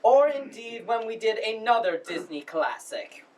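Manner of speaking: formal, halting welcome speech; lightly pompous drama society director addressing the house. Acted. Drama society head welcomes audience to the spring production, formal speech. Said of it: "that was the speaker's monologue from the play".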